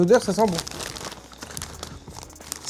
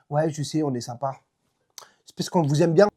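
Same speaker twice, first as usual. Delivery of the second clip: whispered playful aside; whispering; 4 semitones lower, 6 dB quieter than usual. Real, not acted. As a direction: whisper it like a secret. Playful aside in sponsor read.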